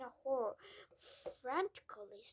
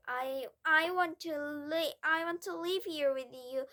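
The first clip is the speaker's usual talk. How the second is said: high, loud desperate plea; crying out; 4 semitones higher, 11 dB louder than usual. A narrator's reading. Matilda begging Miss Honey to keep her, tearful cry. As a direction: beg through tears. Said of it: "Matilda cried out".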